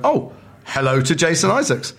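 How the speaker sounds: lightly voiced film director greeting; Alan Parker's greeting. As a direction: savour the words like a famous director. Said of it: "He went".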